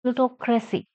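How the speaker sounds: "plutocracy" stressed on "plu". Shown as a demonstration. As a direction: lean on PLU at the start of "plutocracy". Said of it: "Stress on plu".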